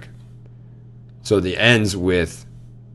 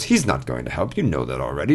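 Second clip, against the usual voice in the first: lightly voiced brother, pitched lower; brother character; 5 semitones lower, 4 dB quieter than usual. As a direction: drop down a little for the dismissive brother. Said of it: "the brother goes".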